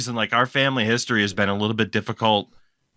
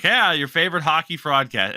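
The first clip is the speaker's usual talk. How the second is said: higher-pitched pretend podcast intro; mock host intro; 5 semitones higher than usual. Host jokingly introduces a retitled show, mock intro. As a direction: put on a pretend host greeting.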